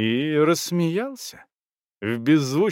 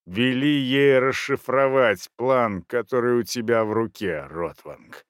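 hoarse voice; 3 semitones lower than usual. Acted. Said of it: "с некоторой сухостью в охрипшем голосе".

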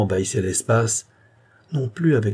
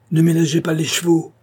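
high, urgent call; calling through cupped hands; 7 semitones higher, 4 dB louder than usual. A narrator's reading. Orianov urging on the other carriage from afar, high call. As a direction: holler it to a far-off carriage. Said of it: "comme d'un porte-voix".

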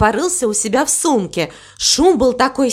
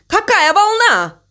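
high-pitched excited cry; 10 semitones higher than usual. A narrator's reading. Crow marvels in alarm at a wave, crying out. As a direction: exclaim it way up high. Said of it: "кричал он".

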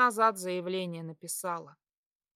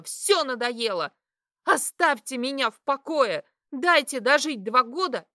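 furious outburst; 4 semitones higher, 6 dB louder than usual. Acted. Daughter screaming her grievances at mother. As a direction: let it all burst out.

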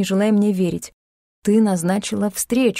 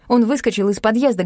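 plain reading voice

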